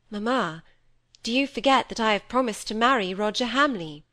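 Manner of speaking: ordinary delivery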